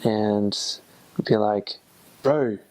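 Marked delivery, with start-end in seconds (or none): 2.2-2.6 New Zealand "Bro"; Kiwi accent. Shown as a demonstration. Returned missionary imitating how New Zealanders talk, Kiwi accent. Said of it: "it's lower, less nasally".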